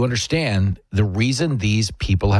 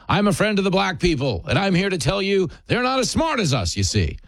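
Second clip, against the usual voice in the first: higher-pitched parody of a patronizing self-appointed friend; mock condescending; 6 semitones higher than usual. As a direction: talk down to them as their supposed protector. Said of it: "You sound like you're talking down to 'em".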